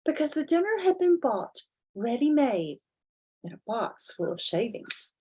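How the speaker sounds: put-on expressive read-aloud to children; dramatic children's story narration; storybook reading. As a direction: read it like bedtime to little ones. Reads picture book aloud.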